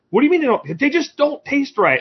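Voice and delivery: very high, slowing insistence; hammed-up complaining Brit; mock insistent friend. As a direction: stretch it out, high and stubborn.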